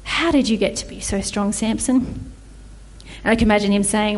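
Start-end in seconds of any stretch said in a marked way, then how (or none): 0.0-2.3 smooth con artist. Acted. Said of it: "in her most manipulative, con artist voice".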